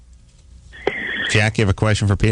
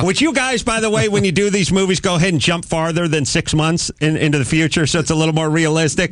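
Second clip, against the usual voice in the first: exasperated plea; 7 semitones higher than usual. Retold or imitated. Retold complaint to filmmakers.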